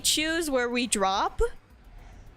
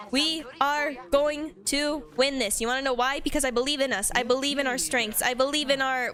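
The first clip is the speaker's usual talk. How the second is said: rally the team like a coach; booming motivational speech. Pretend. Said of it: "I'm sounding like a motivational speaker".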